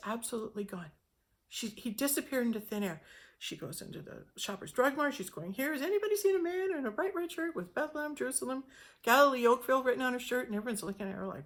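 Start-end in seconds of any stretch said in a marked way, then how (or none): 5.5-10.5 high, fast, louder calling out to the store; urgent retold question. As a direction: ask everyone in a rush, voice up high. Frantically asking shoppers in the store.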